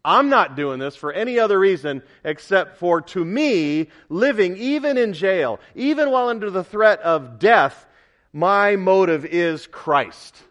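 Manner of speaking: emphatic declaration in Paul's role; insistent testimony as Paul. Acted. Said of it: "Paul emphatically says".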